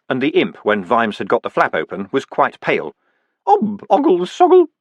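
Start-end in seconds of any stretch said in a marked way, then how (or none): 3.5-4.7 tiny, very high gurgle; a waterlogged imp burbling; watery imp voice. A narrator's reading. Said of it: "watery sound".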